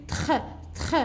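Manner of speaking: "tr" as a short blend with throaty R; blended consonants. Shown as a demonstration. Teacher shows the red letters' sound, blended consonants. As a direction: sound out "tr" twice, separately. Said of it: "comment on va prononcer ici".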